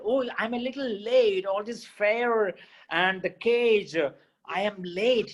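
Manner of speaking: fretting Pinocchio. Acted. Pinocchio frets on the road.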